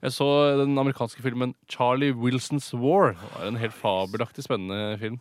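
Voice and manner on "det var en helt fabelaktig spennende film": low-key praise that sounds ironic; deadpan rave review; unintentionally ironic. Real, not acted. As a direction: praise it with audibly little enthusiasm. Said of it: "Nå hørtes det ironisk ut".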